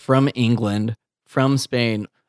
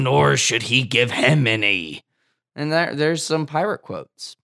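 ordinary delivery

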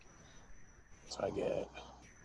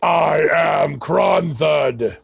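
slow, loud booming declaration; deeper voice; 5 dB louder, much slower than usual. Acted. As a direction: announce your name in a deep voice. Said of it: "I say in a deeper voice than normal".

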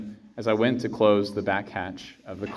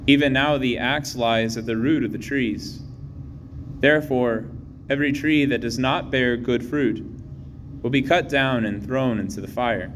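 Gospel reading. Real, not acted.

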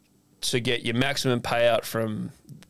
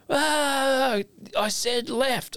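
annoyed clerk; 12 semitones higher, much slower than usual. Retold or imitated. Clerk snaps at him retold.

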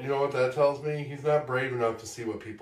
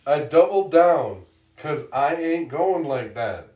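dramatic reading; 2 semitones higher, 6 dB louder than usual. Shown as a demonstration. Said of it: "this dramatic reading of a song".

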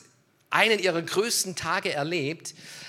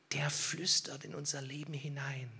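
hushed, much softer whisper; 4 semitones lower, 12 dB quieter than usual. Shown as a demonstration. Preacher showing how God speaks into our lives, whisper. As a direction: drop into a whisper to show it.

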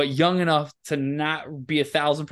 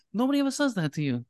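high squeaky voice. Retold or imitated. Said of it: "he's like".

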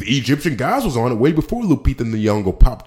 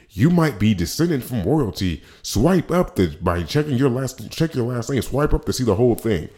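mock ad voice; 4 semitones higher than usual. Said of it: "I see an ad pop up that says".

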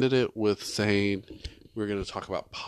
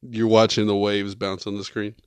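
whisper yelling; 6 dB louder than usual. Real, not acted. Whispered banter at the mic.

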